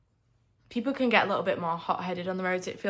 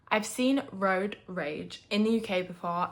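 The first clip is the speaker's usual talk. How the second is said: lisping through retainers, slower; slower than usual. Real, not acted. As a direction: talk round a retainer, lisping on seen. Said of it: "Excuse my lisp, I have retainers in".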